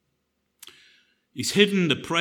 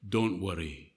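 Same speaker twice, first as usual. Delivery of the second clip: put-on cheeky boy scout; 5 semitones lower, 9 dB quieter than usual. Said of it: "the Boy Scout said".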